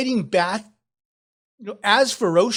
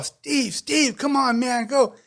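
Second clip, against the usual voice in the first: higher-pitched pleading call; urgent calling; 6 semitones higher than usual. Acted. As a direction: urge a friend to leave, without full volume. Calling a friend out of fight.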